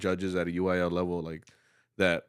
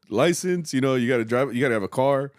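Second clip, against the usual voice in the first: high, loud teasing lecture; retold lecture; 6 semitones higher, 6 dB louder than usual. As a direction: raise your voice at the kids, half joking. Director retells lecturing his students.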